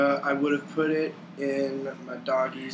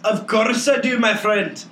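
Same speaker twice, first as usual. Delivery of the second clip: warmer, bigger take, louder and raised; hearty, louder and higher; 8 semitones higher, 7 dB louder than usual. Acted. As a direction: boom it out like a jolly barkeep. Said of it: "That's much better".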